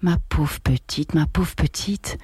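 lent et plein de pitié, répété doucement; avec pitié. Acted. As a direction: plaindre la jeune veuve, lentement. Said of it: "puis elle reprit avec pitié". (la vieille voisine plaint Marguerite, avec une pitié lente)

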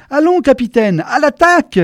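high-pitched, forceful military command; commanding order. A narrator's reading. General orders his hesitating captain to charge, commanding. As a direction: order the troops forward, climbing to a loud finish. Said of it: "intima le général".

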